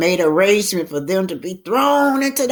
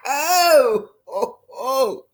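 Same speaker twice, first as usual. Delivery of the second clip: laughing; 7 semitones higher, 4 dB louder, much slower than usual. A narrator's reading. Melinda laughing at Harry.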